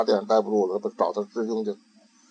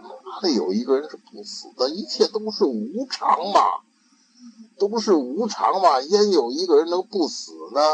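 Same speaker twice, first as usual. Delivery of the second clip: teaching master; 7 semitones higher than usual. Acted. Master explains impermanence.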